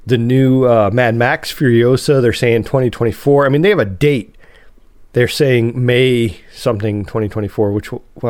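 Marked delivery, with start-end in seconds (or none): 3.4-4.4 quick whispered aside. Real, not acted. Aside about release dates.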